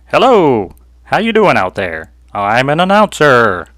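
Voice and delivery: booming loud announcer; big showman announcer delivery. Shown as a demonstration. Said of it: "that was my announcer voice".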